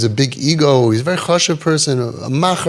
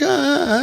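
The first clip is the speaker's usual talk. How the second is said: put-on stuttering kid; 12 semitones higher than usual. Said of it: "the kid was like".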